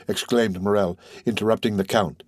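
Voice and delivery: plain reading voice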